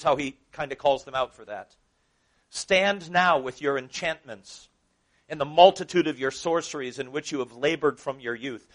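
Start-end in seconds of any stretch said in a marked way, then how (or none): 2.5-8.7 biting, sarcastic scripture reading. Acted. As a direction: taunt them with the verse. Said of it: "Can you sense the sarcasm there".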